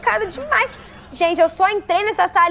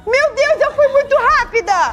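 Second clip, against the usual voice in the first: laughing relief; 5 semitones higher than usual. Real, not acted. Laughing relief after escape.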